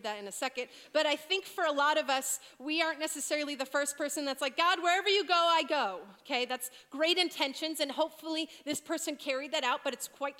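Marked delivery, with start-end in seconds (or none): 4.6-6.0 eager vow. Retold or imitated. Eager believer voiced.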